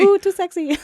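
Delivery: high, loud seductive coo echo; sultry coo. Pretend. Echoing the sexy imitation.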